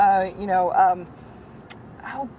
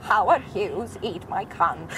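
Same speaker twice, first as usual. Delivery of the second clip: Katharine Hepburn impression; 4 semitones lower, 3 dB quieter, slower than usual. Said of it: "Catherine Hepburn says dirty things".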